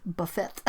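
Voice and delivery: Buffet as buff-ET, short u and a sounded t; anglicized buffet. Shown as a demonstration. Apologizing to viewers, trying Buffet with a sounded t. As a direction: say Buffet with a hard t at the end. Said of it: "Okay, sorry guys".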